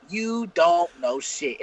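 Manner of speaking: very slow, every word spelled out; slow emphatic. Retold or imitated. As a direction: drag out "You don't know shit" word by word. Repeated slowly for emphasis.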